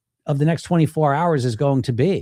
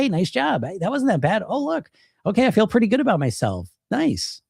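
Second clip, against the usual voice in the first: light, higher, quick pat on the back; cheery self-praise; 5 semitones higher than usual. Retold or imitated. Dieter praising herself after an apple, cheery and quick. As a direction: congratulate yourself brightly after the apple. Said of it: "You say".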